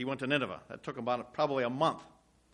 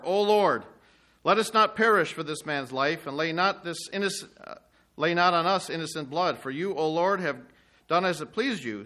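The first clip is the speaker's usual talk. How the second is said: loud pleading cry of the sailors; calling out to God; 5 semitones higher, 8 dB louder than usual. Acted. Sailors calling to the Lord in the storm, loud pleading. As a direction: cry out the prayer over the storm.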